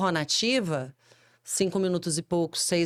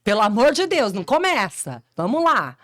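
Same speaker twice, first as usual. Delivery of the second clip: bronca firme; 5 semitones higher, 8 dB louder than usual. Retold or imitated. Amigo repreende, firme.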